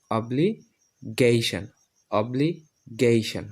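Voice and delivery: অব্লিগেশন slow, "obli-GAY-shan", falling; new pronunciation. Shown as a demonstration. Teacher models for learners, অব্লিগেশন as slow "obli-gayshan". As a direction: say অব্লিগেশন split before "gay", ending "shan". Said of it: "এখন আমরা এটা উচ্চারণ করব".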